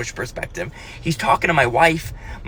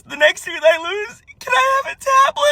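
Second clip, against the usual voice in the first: put-on little girl voice. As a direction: ask like a cute scheming child. Daughter asks for tablet.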